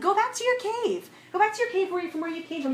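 God ordering the rabbi back to his cave; emphatic dismissal. Retold or imitated. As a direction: send him away with mock outrage. Repeating God's command, heightened.

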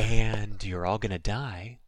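slow, lightly hushed newsreader spoof; mock radio newsreader. Co-host echoing the spoof of relaxing radio news, mock soothing. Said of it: "telling you how the world is burning in a very low voice".

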